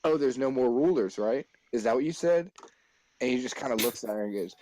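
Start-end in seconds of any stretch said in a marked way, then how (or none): 0.0-2.5 imitated shock, challenging questions; mock-shocked teacher. Teacher questioning the stuttering pupil, imitated shock. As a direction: throw his words back at him in mock disbelief. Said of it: "like, shocked".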